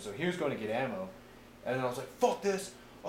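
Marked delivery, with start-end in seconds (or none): 2.2-2.7 high, loud fed-up outburst; retold exasperation. Narrator fed up with his gunner mid-firefight, retold exasperation. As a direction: throw it out in mock exasperation.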